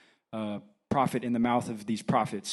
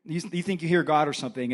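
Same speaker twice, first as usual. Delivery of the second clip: ordinary delivery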